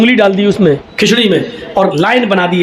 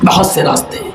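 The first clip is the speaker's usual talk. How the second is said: softer whispered echo of the phrase بہت سے راستے; 3 semitones lower, 3 dB quieter than usual. Shown as a demonstration.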